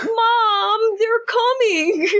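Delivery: put-on high childish warning to mom; scared kid voice. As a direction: whimper it like a spooked child. Finn warns mother, put-on voice.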